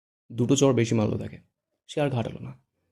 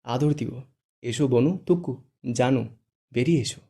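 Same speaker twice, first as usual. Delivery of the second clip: sly coaxing. Acted. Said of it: "মিটিমিটি হেসে বলে".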